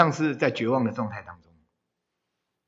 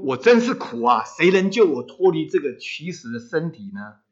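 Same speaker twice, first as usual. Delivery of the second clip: mild mock outcry, raised in pitch; 保罗, retold cry; 3 semitones higher, 4 dB louder than usual. Preacher quoting an apostle's plea for rescue, mild outcry. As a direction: cry it out lightly, as a quoted plea. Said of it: "保罗在喊出".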